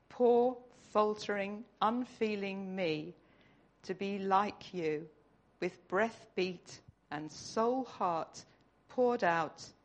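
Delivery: slow, earnest reading of a prayer poem. Acted. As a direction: read it like a heartfelt prayer, pausing between phrases.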